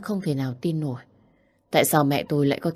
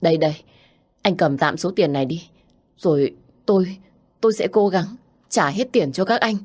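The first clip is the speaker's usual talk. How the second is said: louder, flustered begging; pleading; 3 semitones higher, 3 dB louder than usual. Acted. Daughter pleading with thugs, flustered. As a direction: rush the money over. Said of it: "van nài".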